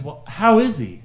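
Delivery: high, loud, drawn-out question; drawn-out inquiry. Retold or imitated. Woman at the counter probing about his dad, drawn-out inquiry. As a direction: stretch it out, pointedly asking.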